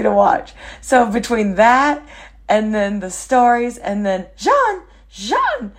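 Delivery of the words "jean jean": mother's voice. Retold or imitated. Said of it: "mother's voice callback".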